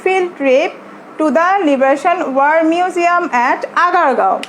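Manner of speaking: slow, measured classroom reading; text read-aloud. Shown as a demonstration. Teacher reading the text for students to listen, slow read-aloud. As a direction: read it out slowly in separate word groups.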